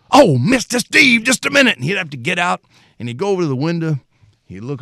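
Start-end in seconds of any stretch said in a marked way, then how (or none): 0.1-1.7 Mister Dave voiced. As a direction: answer embarrassed, caught without keys. Dave voiced in retold story.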